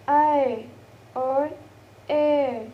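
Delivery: "I" and "air" each drawn out separately; diphthong demo. Shown as a demonstration. Teacher showing the vowel in my, drawn-out demo. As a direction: model "I" slowly, as the vowel in my. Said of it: "And the next is".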